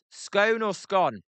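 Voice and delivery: "scone" first rhyming with cone, then rhyming with gone; two pronunciations of scone. Shown as a demonstration. Streamer asks viewers how they pronounce it, "scone" long O then short O. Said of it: "How do you pronounce that?".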